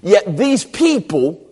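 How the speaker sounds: high, haughty mock incredulity; hammed-up pompous scorn; self-important. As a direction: play a Pharisee looking down on the crowd. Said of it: "with self-importance".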